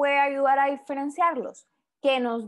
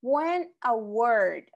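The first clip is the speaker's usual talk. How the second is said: slow reading aloud; much slower than usual. Shown as a demonstration.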